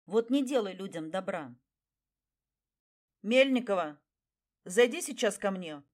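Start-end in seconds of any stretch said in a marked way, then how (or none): 3.2-5.8 far away shout. Acted. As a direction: boss calling from a distance. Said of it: "Издалека донёсся голос главного".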